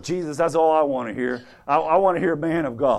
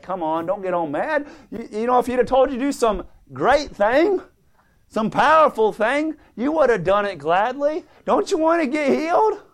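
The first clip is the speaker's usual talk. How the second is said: coaxing servant; 5 semitones higher than usual. Acted. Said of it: "The servant came to him and said".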